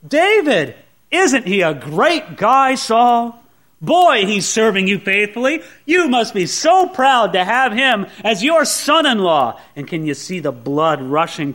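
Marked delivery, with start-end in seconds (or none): 0.0-9.6 slow, guileless gushing about David; cheerfully clueless, praising the wrong man; naive praise. Acted. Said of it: "what does Ahimelech say to Saul".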